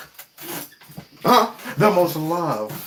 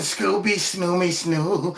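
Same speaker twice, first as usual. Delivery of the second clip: Scooby-Doo imitation; 3 semitones lower, slower than usual. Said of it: "went Scooby-Doo on us".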